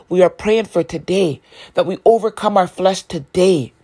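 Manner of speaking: "today" leaned on at each phrase end; stress on today. Real, not acted. Urging listeners to pray for this day, stress on "today". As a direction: put the weight on "today" both times. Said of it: "Emphasize on that word today".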